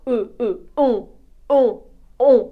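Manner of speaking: «Е» then «ен», the vowel turning nasal; short isolated models, plain «Е» building to nasal «ен»; rounded lips. Shown as a demonstration. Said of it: "Робимо губки таким трішки бантиком".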